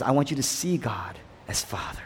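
soft whispered invitation; hushed Jesus. Retold or imitated. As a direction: breathe it like a secret. Quoting Jesus teaching prayer.

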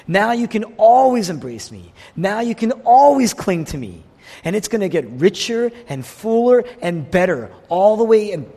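fervent climax of the sermon; preaching crescendo. Real, not acted. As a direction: build it like a rising proclamation.

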